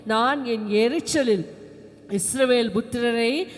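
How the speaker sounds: slow, emphatic reading of God's words; solemn Bible reading to a congregation; scripture reading. Acted. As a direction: declaim the verse deliberately.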